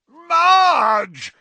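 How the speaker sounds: very high, loud shout; panicked shout of her name; alarmed yell. A narrator's reading. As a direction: cry out in shock. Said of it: "yelled Uncle Vernon".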